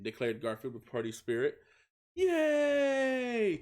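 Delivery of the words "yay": high, loud cheer of joy; excited cheer. A narrator's reading. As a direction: shout it out with glee. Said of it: "chanted everyone".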